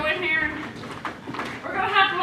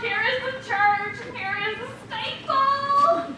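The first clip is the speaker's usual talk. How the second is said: lilting rhyme, lifting on steeple; nursery rhyme recital; 5 semitones higher, 3 dB quieter than usual. Acted. Reciting church finger rhyme.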